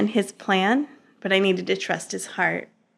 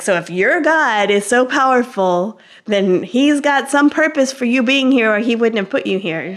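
louder, pushy lecture, voice up high; stern scolding; 3 semitones higher, 4 dB louder than usual. Retold or imitated. The scary trainer lecturing the new inmate, pushy and loud. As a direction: drill it into the crybaby that this is home. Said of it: "She's like".

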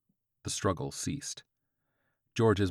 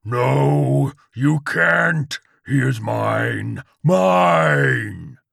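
loud, high, drawn-out demon dog; death howl; 6 semitones higher, 12 dB louder, much slower than usual. A narrator's reading. Chihuahua chases George, desperate death howl. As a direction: howl it desperately, stretching the words. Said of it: "cried out his death howl".

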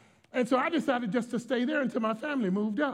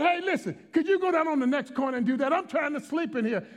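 high-pitched, exasperated appeal; frustrated; 5 semitones higher than usual. Retold or imitated. Sleepless pastor to woman on the corner, retold frustration. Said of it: "I was so frustrated".

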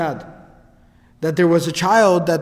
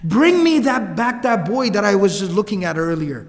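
imitated upset demand. Fortune teller demanding the boy back, mock angry and upset. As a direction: act out an insistent order, pushed at the start. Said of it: "He gets very angry and very upset".

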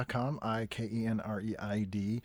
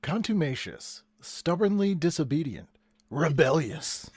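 announcer voice; 4 semitones higher than usual. Acted. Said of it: "regular announcer voice".

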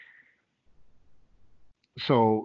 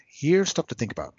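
whispered aside; 4 semitones higher, 5 dB louder than usual. Shown as a demonstration. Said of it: "It's not a manual".

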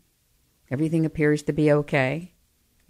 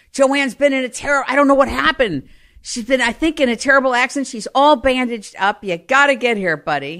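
urgent cousin; 5 semitones higher, 4 dB louder than usual. Retold or imitated. Cousin's urgent phone call.

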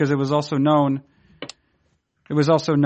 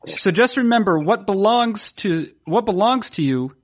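dramatic reading; 3 semitones higher than usual. Shown as a demonstration. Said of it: "Let me begin again".

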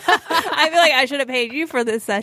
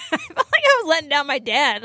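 real laughter running through the words; laughing; 6 semitones higher than usual. Real, not acted. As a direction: laugh it out while owning up. Laughing while confessing to friends.

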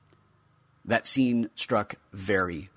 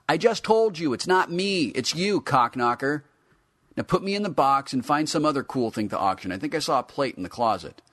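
higher, louder irritated toy; annoyed figure; 7 semitones higher, 6 dB louder than usual. A narrator's reading. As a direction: snap back at the owner. Action figure snaps back.

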